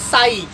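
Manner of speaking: साइक said as "saa-ik", p silent; careful pronunciation. Shown as a demonstration. Teacher showing students how to read it, careful pronunciation. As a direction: model the word साइक with a clear opening s. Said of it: "यहाँ से यहाँ तक उच्चारण करिए".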